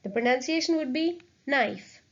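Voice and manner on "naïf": "knife" as French na-EEF, A and I both sounded; separate vowels. Shown as a demonstration. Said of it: "separate the vowels and pronounce them separately".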